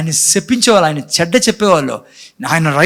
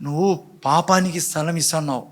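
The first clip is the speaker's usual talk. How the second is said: gentle warning. Retold or imitated. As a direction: start hushed and tender, end with weight. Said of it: "అన్నాడు దేవుడు". (కయీనుతో మృదువుగా, చివరికి గట్టిగా హెచ్చరించే దేవుడు)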